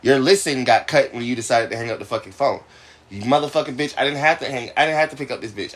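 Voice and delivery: furious yelling at caller; heated and loud, cursing; angry. Real, not acted. Angry phone argument.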